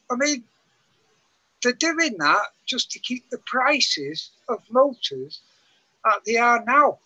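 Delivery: muffled through bad earphones mic. Real, not acted. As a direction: sound muffled, like a covered mic. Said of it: "I'm sorry if I'm sounding a bit muffled".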